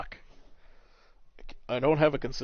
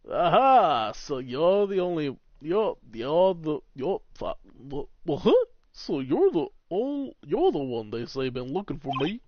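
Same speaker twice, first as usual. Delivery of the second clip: grand, swooping character voice; theatrical pompous lawyer voice; pompous older lawyer; 5 semitones higher, 8 dB louder, slower than usual. Acted. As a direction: play a self-important veteran attorney.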